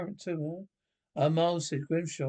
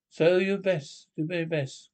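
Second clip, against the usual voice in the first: slow urging shout; 4 dB louder, slower than usual. Acted. Sergeant urging men before the contest.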